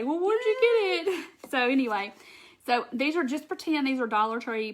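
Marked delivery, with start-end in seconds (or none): 0.0-1.3 higher, eager viewer's question; lightly voiced curious viewer; curious viewers asking. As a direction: pipe up like a nosy fan. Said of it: "'cause I knew y'all were gonna say".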